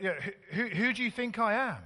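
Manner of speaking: retelling the coach at the gate, laughing and mocking. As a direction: ham up the coach's self-importance through a laugh. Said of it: "kind of like".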